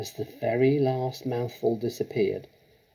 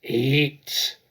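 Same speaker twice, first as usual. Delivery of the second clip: louder barked order; shout; 3 semitones higher, 5 dB louder than usual. Acted. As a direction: bark the order at the boy. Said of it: "she shouted".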